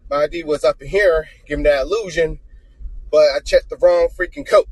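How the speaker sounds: winded after running back; out of breath. Real, not acted. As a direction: talk while catching breath. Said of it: "So that's why I'm out of breath".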